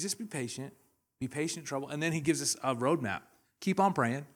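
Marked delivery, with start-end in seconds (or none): 0.0-1.9 1 God's calm reply. Retold or imitated. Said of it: "He says".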